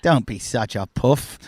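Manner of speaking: slow, lightly imitated Aussie put-down; low-key mock-Aussie dismissal; Australian accent. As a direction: scoff like an unbothered Australian surfer. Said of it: "That's very Aussie".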